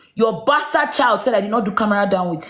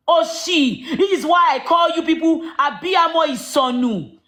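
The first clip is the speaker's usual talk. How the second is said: mocking laugh; 5 semitones higher than usual. Real, not acted.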